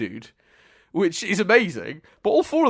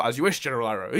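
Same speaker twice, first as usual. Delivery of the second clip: casual; 4 semitones lower, faster than usual. Shown as a demonstration. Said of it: "it should just be a casual".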